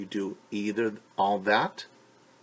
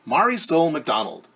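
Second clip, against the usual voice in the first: a teacher calling out a pupil's name; 5 semitones higher, 10 dB louder than usual. Acted. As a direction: call her name like a strict teacher. Teacher calls the girl's name.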